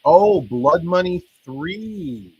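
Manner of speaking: loud, slow drawn-out "Oh, Blood Money three"; excited. Real, not acted. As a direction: savour the name with delight. Money falls from the sky.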